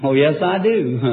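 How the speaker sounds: chuckling through the reply; laughing. Real, not acted. Preacher teasing the patient about her thought, laughing. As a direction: laugh it off knowingly.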